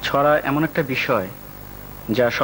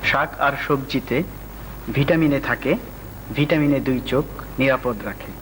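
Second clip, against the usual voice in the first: reciting a rhyme. Acted. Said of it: "আজকে একটা ছোট্ট উপদেশ".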